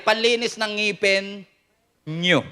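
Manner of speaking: slow, with a pause before "nyo"; stress on nyo. Shown as a demonstration. Preacher clarifying whose teeth, pause then stressed "nyo". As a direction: set "nyo" apart after a clear pause. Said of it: "klaruhin nyo".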